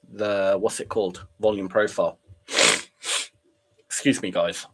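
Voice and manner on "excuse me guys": sniffly. Real, not acted. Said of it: "hearing someone sniffling".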